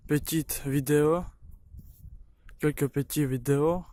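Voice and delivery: halting French with a Ukrainian accent; non-native French, searching for words; broken french. Real, not acted. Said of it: "Je parle un peu français".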